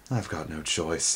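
quiet resigned aside; whispered. Acted. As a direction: give in under your breath. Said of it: "he whispered".

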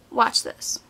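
hushed whisper, as if sharing a secret. Real, not acted. Teasing viewers before a swatch, whispered. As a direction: breathe it out, no voice.

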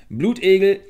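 very loud, high shout; high-pitched holler; calling out. A narrator's reading. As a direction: yell the name with full force. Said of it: "ruf er wieder".

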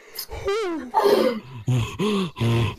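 imitating breathless panting. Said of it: "she's like".

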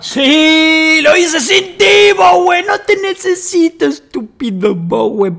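high, loud mock victory shout; triumphant gloat. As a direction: crow it like a movie hero who won alone. Triumphant gloat after fixing screens. (grito triunfal exagerado, agudo y fuerte)

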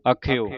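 ਅਖਿਓ ending in a full o; open o ending. Shown as a demonstration. Teacher models for learners, ਅਖਿਓ with final o. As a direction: finish ਅਖਿਓ as a-khe-o. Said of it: "ਅਖਿਓ ਬੋਲਣਾ ਹੈ".

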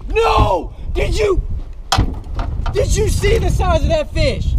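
can't believe the fish got away; shocked. Real, not acted. Fish breaks off line.

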